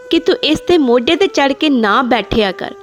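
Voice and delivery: scolding mother. Acted. Mother scolds grandmother for letting her son sit close, in an angry nagging voice.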